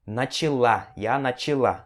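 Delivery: Russian stress on the final syllable; stress on the last A. Shown as a demonstration. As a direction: lean on the last syllable of начала. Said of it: "a sílaba tônica vem aqui nesse último A".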